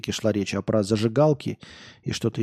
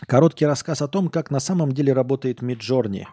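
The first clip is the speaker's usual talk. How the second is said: ordinary talk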